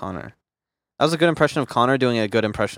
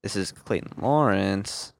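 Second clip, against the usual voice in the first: slow, drawn-out host intro; a hint of a mocking impression, slowed right down; imitating Clayton Lawrence; slower than usual. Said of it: "The spider is trying to imitate Clayton Lawrence".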